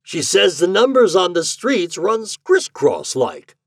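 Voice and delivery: high, loud character voice; talkative boarding-house host. A narrator's reading. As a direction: launch into a folksy discourse.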